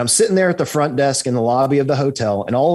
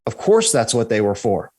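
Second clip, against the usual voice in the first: imitating a man with no hint of shock; matter-of-fact; 3 semitones lower than usual. Stranger answering the researcher's pyramid theory, understated matter-of-fact. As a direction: say it as if obvious, without hesitation. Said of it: "looked at me so matter-of-factly and said".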